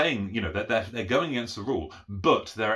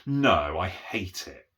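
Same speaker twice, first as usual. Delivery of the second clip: sarcastic; much slower than usual. Shown as a demonstration. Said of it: "Typical sarcastic response".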